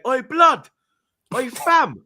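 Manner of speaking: high, loud hail from strangers; calling out. Retold or imitated. People at the game spotting him, calling out. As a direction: hail someone across a crowd, imitated.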